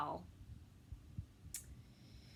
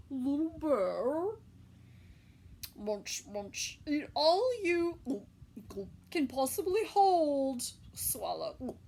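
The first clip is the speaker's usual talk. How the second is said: lightly voiced mother bear; 2 semitones higher, 5 dB louder than usual. Mother bear speaks to cub.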